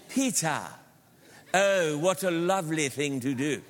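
mock the gentle Hollywood Jesus; movie Jesus voice. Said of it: "he talks like this".

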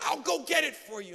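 chirpy mock helpfulness; happy clerk. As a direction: imitate an eager-to-please shop clerk. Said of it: "not only was she slow, but she was happy".

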